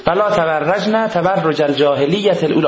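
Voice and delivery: Quran recitation. Acted. Verse recited a third time. (تلاوت آرام آیه)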